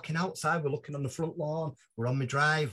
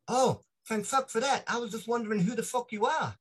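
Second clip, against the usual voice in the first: Morgan Strebler; 8 semitones higher than usual. Retold or imitated. Morgan relieved to learn who he is.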